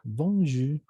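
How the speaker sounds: bonjour with its final R left mute; silent final R. Shown as a demonstration. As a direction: say bonjour, dropping the R at the end. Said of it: "la R se vuelve muda al final". (bonjour con la R final muda)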